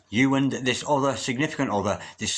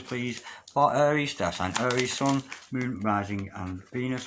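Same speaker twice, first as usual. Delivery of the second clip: murmured invocation. Acted. Repeated invocation.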